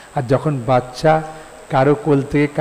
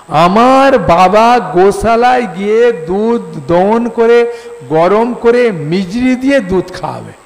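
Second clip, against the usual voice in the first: put-on slow, a bit louder little boy voice; a small child boasting about his father; child Kanai voice; 4 semitones higher, 4 dB louder, slower than usual. Kanai tells mother Rohini his father will feed him, child voice.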